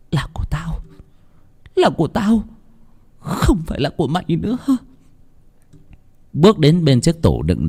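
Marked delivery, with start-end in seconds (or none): 0.1-0.8 eerie possessed hiss. Acted. Possessed girl to her mirror, eerie and soft. 1.8-4.6 much higher, rising, demonic; the demon shrieks its claim; shrill possessed voice. Acted. Possessed girl to her mirror, high demonic rise.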